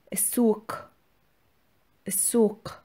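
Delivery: السوق said as "is-sook" with a k; k pronunciation. Shown as a demonstration. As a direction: say السوق with the qaf as a k.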